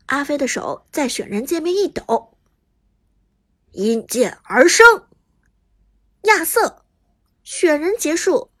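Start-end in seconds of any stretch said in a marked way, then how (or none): 3.7-6.8 booming knight pick line; game voice line. Acted.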